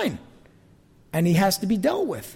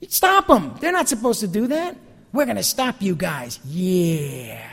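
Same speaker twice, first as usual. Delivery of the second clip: territorial whining; 3 semitones higher than usual. Retold or imitated. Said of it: "All Joshua is thinking about is".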